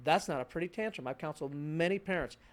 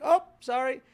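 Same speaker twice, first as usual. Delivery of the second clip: mock sympathy; 7 semitones higher, 10 dB louder than usual. Parent to crying one-year-old.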